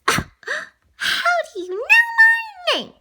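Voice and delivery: high, rising, shocked demand; indignant demand. Pretend. Lady demanding of Tramp, shocked and high. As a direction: demand an answer, outraged. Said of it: "demanded lady".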